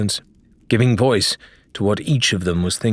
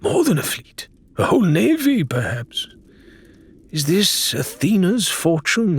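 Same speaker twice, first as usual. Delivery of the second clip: high, uneasy sailor voice, pitched up; Faisal's worried voice; 5 semitones higher than usual. Acted. Faisal to Adelaide about the treasure, high and uneasy. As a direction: wonder aloud whether the treasure is cursed.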